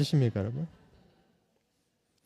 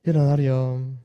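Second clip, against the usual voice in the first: mock Busan gentle try; 3 semitones lower, 6 dB louder, much slower than usual. Shown as a demonstration. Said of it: "부산 표준말은 그렇게 안 하는데".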